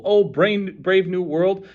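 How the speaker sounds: high, loud proclaiming cry; challenge. A narrator's reading. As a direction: ring it out as a command. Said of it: "It was a challenge, a command".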